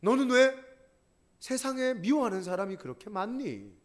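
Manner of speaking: the cross crying out in rebuke. Pretend. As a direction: cry out the question. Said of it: "십자가가 소리 지르고 있는 거예요".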